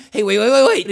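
loud, insistent plea to hold on; urgent interjection. Acted. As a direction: cut in loudly, desperate to be heard. Pleading to be heard out.

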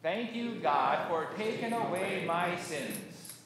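slow, spaced-out thanksgiving; congregational recitation. Shown as a demonstration. Pastor leading congregation's thanks to God, slow recitation. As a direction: lead a group word by word, unhurried. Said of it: "let's say together".

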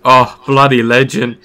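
light, hammed-up New Zealand twang; a hint of a Kiwi bloke praising his mate; mock Kiwi accent. Friend pitching an ad idea, in a mock Kiwi accent. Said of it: "Just make it really Kiwi".

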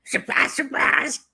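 put-on high, drawn-out accent of a singer. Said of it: "I nearly said it in the accent".

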